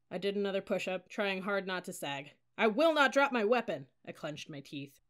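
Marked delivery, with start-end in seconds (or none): 2.6-3.9 high, loud cadet shout; louder recitation. A narrator's reading. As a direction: shout it out to satisfy the instructor.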